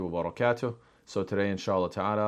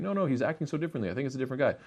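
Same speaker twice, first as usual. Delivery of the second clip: lightly voiced doubter, higher and quick; disputing neighbour; 6 semitones higher, much faster than usual. Neighbours debate whether it's the same man, higher-pitched disagreement. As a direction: argue back in a raised, hurried voice.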